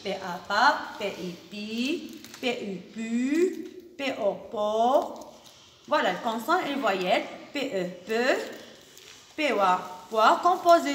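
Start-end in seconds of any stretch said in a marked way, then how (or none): 0.0-5.3 letters named one by one, then blended into "pa", "pi", "pu", "po"; teacher sounding out "pa", "pi", "pu", "po"; syllable drill. Shown as a demonstration.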